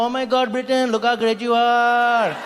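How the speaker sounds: slow, gushing mock praise; a hint of an awestruck onlooker; mock admiring crowd. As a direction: gush over Britain lightly. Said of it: "Then people go".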